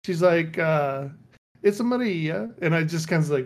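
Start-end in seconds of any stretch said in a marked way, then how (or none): 1.6-2.5 higher-pitched, hammed-up Italian accent; playful cartoon Italian accent; mock Italian accent. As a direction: imitate a Mario-like Italian accent. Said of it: "making fun of her own accent".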